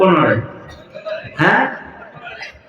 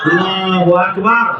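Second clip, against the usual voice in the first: loud takbir; 3 semitones higher, slower than usual. Shown as a demonstration. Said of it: "জোরে বলেন".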